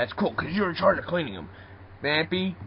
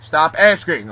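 exasperated; 8 dB louder than usual. Acted. Fed up with repeated questions.

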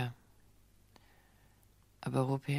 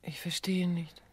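slow whisper; slower than usual. Acted. Woman evades accusation.

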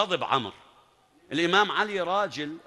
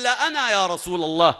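bold volunteering; 6 dB louder than usual. Acted. Young Ali volunteers boldly.

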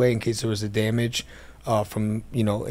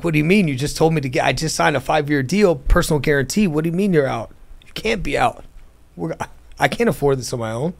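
higher and louder, pleading in alarm; a retold burst of alarmed disbelief, higher and louder; retold panicked protest; 4 semitones higher, 4 dB louder than usual. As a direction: throw it back at him, higher and louder in disbelief. Panicked reply to uncle quitting.

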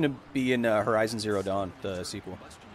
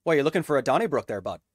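Canadian accent. Shown as a demonstration. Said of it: "how's your Canadian accent?".

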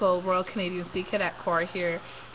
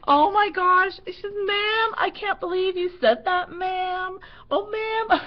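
high, loud, laughing "oh ma'am"; teen laughing in disbelief; 10 semitones higher, 6 dB louder, slower than usual. Retold or imitated. Cadet laughing at her instructor, high and giggly. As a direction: squeal it through the giggles. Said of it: "she almost fell on the floor laughing".

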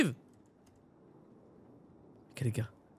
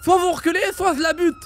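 hostage threat; 10 semitones higher than usual. Acted. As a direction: bark the threat, holding a hostage. Robber threatening police with hostage.

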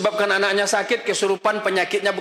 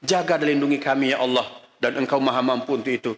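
sincere prayer. Shown as a demonstration. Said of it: "Kenapa nggak minta sama Allah?".

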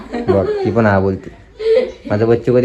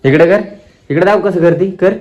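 playful coaxing; 6 semitones higher, 4 dB louder than usual. Real, not acted. Teasing the toddler about mummy crying, playful high coaxing. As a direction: tease the little one into agreeing.

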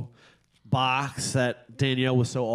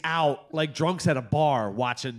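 high, giddy ranting promise; hammed-up overexcited dad; 6 semitones higher, 3 dB louder than usual. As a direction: pile it on with mounting comic glee. Hyped dad promising endless movie binge.

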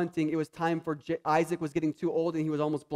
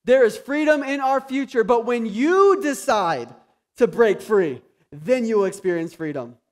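higher and louder, slowing on "when you decide"; preaching at full force; 3 semitones higher, 6 dB louder than usual. Acted. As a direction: proclaim it to the whole room. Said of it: "building preacher refrain".

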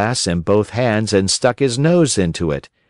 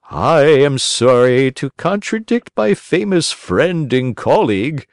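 fussy owl doctor; 5 semitones higher than usual. A narrator's reading. Owl doctor politely contradicts the crow, high and prim. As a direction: apologise with prim owl dignity.

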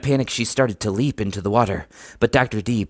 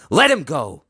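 raised, forceful order; higher, urgent bark; shouted command; 6 semitones higher, 4 dB louder than usual. A narrator's reading. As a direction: shout at an attacker to release someone. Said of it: "shouted Doctor D".

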